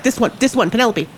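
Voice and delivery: small, high helper voice; lightly voiced tiny sprite; little creature voice. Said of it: "Sod has appeared".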